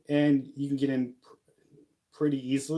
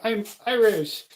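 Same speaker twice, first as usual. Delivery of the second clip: higher, louder, slower mock boast of being Irish; mock friend bragging; 9 semitones higher, 6 dB louder than usual. Friend proudly claiming on Saint Patrick's Day, mock high boast. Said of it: "she's like".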